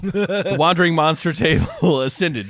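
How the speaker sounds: booming high dragon proclamation, laughing. Pretend. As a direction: announce it like a grand dragon. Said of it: "Red Dragon voice".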